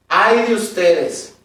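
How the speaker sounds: slow, weighty ay de ustedes; solemn woe. Acted. Preacher warns the Pharisees, slow and heavy. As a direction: lean hard on Ay de ustedes, drawn out. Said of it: "Es una, es una expresión fuerte".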